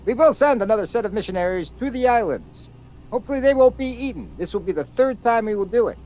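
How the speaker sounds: high-pitched mock colonial announcer; old British broadcast. Friend reporting on the missionaries, high-pitched mock British announcer. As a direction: announce it like a vintage British newsreel. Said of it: "recordings of the British fucking overseas broadcasting service".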